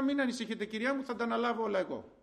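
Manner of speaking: mildly soothing customer-service voice; reassuring reply. Retold or imitated. Shop worker promises to handle customer's problem, gently reassuring. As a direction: imitate calming an upset customer. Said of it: "του μίλαγα με διαφορετικό τρόπο".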